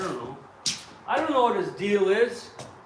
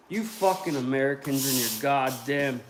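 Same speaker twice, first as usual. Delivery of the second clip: mock taunt; 5 semitones lower, 3 dB louder than usual. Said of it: "I was arguing with liberals".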